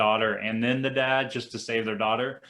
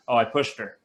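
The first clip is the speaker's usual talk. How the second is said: imitating a girl's casual confession; blunt, matter-of-fact. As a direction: say it plainly, as if it were nothing. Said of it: "that blunt matter of factly".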